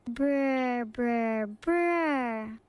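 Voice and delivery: helicopter noise. Shown as a demonstration. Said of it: "Evil copter incoming".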